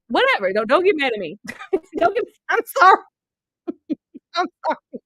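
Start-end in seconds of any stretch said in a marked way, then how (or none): 2.0-5.0 giggling apology; laughing. Real, not acted.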